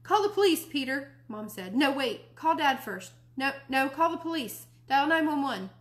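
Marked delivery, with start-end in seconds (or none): 0.0-1.1 high, loud frantic cry for help; panicked mom. Acted. Mom panics about missing baby. 1.7-5.7 panicked mom. Acted. Mom panics about missing baby.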